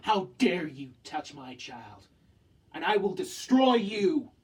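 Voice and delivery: slow, rising to a loud furious threat; slow, menacing, then loud outrage; imitating angry parent. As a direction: protective parent snapping at the weasel, building to loud. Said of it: "You would be angry at that weasel".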